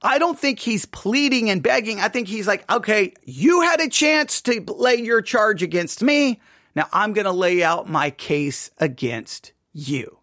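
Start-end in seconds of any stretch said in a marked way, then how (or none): 2.7-10.2 laying out charges. Acted. God answering after their chance, laying out charges. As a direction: state the case without begging. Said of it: "That's the way I think we should read it".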